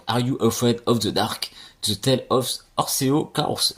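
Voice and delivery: slow, careful English title in a heavy French accent. Shown as a demonstration. French vlogger reading an English game title, heavy French accent. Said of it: "désolé pour mon accent anglais".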